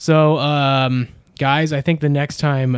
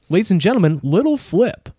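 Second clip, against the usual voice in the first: rapper impression; 4 semitones higher than usual. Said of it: "rapper impression".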